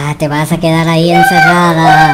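low, gloating witch voice. Acted. Witch gloating that the girlfriend is locked in, low and gloating. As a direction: gloat over her like a wicked witch. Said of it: "esa bruja".

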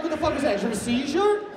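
baffled outburst. Retold or imitated. Reacting to dad's accent.

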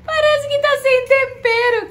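grinning through words; amused tasting comment; smiling while talking. Real, not acted. Seen 1: Smiling, looking down at food; no chewing or full mouth visible.

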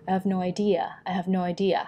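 "idea" stressed, "I have" kept light; weight "idea", a little on "no". Shown as a demonstration. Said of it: "เราจะ stress ที่แค่". (เน้น idea และ no นิดหน่อย)

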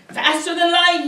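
high, loud call; yelled. A narrator's reading. Driver calls to the poet as he speeds off, yelled. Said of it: "he yelled".

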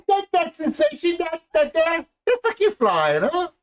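put-on high Cajun accent that drops back down at the end; hammed-up Cajun Jack, coaxing; Cajun Jack impression. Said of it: "we can do a pretty good Rose and Jack".

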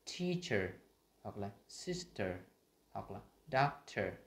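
"teacher", "sister", "doctor" with light final er; unstressed endings. Shown as a demonstration. Teacher giving schwa examples, light endings. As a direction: stress the first syllable, relax the end of "teacher", "sister", "doctor". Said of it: "không được nhấn trọng âm".

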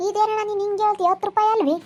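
mildly affronted echo of the price; indignant disbelief. Acted. Customer balking at the coriander price, indignant disbelief.

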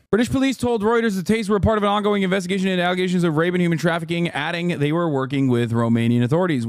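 fast news-article read. Acted. Streamer reads the news story fast to chat. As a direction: rattle off the report quickly.

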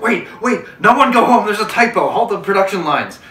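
mock-urgent boss shout of Wait, wait; manager shouting. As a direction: bark it like a panicked manager kicking the door open. Retold manager halting production.

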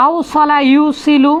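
আউসলা ইউসিলু drawn out slowly, each syllable clear; slow model word. Shown as a demonstration. Teacher shows students how the word sounds, slow and clear. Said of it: "আউসা".

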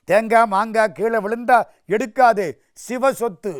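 lightly acted big-brother warning; elder brother warning. Elder brother warns in story.

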